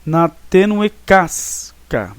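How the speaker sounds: slow, "tênue" hit as the tonic syllable; slow scansion, marking "tênue" as the fourth stressed syllable. Shown as a demonstration. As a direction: drag it out and lean on "tênue". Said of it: "sílaba tônica".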